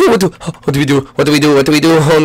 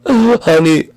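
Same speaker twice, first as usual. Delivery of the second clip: ordinary talk, nothing marked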